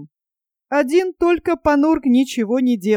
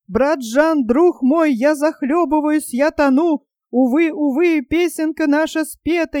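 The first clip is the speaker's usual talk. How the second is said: higher, pleading wail; panicked wailing; 3 semitones higher than usual. Acted. Panurge begs brother Jean to confess him, terrified. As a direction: beg for confession like a drowning man. Panurge wails, prays in terror.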